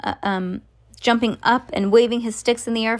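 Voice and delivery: usual speaking voice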